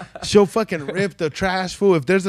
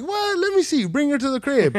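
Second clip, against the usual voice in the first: excited disbelief; 9 semitones higher than usual. Retold or imitated. Excited retelling of seeing the dog.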